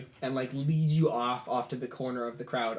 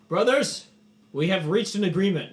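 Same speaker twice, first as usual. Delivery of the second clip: loud proclamation, much higher and louder; addressing the crowd; 7 semitones higher, 8 dB louder than usual. Acted. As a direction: call out to the whole warband. Kor announces to the barbarian crowd.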